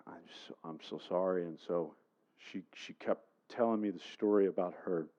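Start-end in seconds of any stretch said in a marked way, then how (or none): 0.1-1.4 soft, whispery retold sympathy; hushed condolence. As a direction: drop to a near whisper to console. Retold condolence after death news.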